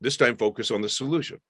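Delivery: put-on firm but kind coaching a child; lightly voiced firm parent; firm parent demo. Shown as a demonstration. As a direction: directive parent, clear and steady. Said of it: "I would say".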